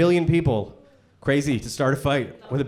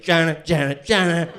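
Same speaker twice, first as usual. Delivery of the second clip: a hint of candidate's press-conference refrain; imitating a politician's catchphrase. Comic mimics the candidate at every debate, repetitive catchphrase. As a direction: repeat it like a lightly mimicked politician. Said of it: "I heard him say it".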